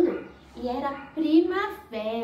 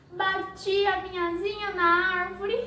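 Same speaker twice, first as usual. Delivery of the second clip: crying butterfly; 5 semitones higher than usual. Acted. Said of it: "Ela, chorando muito, falou".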